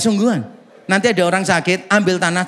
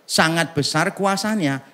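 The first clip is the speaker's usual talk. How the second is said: slow scripture quote; 3 semitones lower, much slower than usual. Shown as a demonstration. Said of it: "Ayatnya cuma berkata begini".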